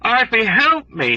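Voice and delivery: high, slow desperate plea; pleading, almost weeping. A narrator's reading. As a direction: beg for help, close to tears. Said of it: "he pleaded, almost weeping".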